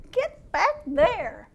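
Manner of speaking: slow, drawn-out repeated command. Retold or imitated. The Lord repeating his order to the sheep, slow. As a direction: stretch each word to insist. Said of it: "And the Lord said".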